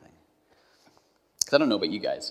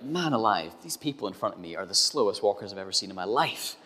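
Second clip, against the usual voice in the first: exasperated; 3 semitones higher, 8 dB louder than usual. Retold or imitated. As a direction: huff and fume at the people ahead. Frustrated by slow walkers, exasperated.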